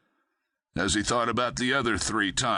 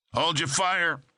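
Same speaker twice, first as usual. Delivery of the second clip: yell; 7 semitones higher than usual. A narrator's reading. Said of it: "yelled Tasker".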